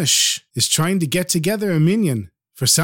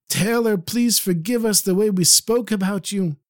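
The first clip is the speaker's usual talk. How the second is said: higher-pitched imploring mourners; acted pleading; 6 semitones higher, slower than usual. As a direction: beg forgiveness in a raised pitch. Mourners beg the dead tailor's forgiveness.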